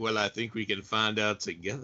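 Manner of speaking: low, velvet-smooth, velvety voice. Retelling a film scene where a character speaks to a girl: imitating Lando's velvet smooth voice. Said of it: "it's the velvet smooth voice when he says to her".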